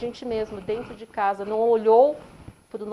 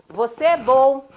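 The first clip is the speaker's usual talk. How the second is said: loud, slow kind call into the mountains; father showing his son the echo; 5 semitones higher, 14 dB louder than usual. Retold or imitated. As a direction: call the praise out warmly and slowly. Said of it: "o pai fala".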